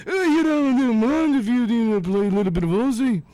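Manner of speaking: mock a slurring rock star; hammed-up impression of a rock singer; a rock singer mumbling. Acted exchange between a rock singer and Sharon.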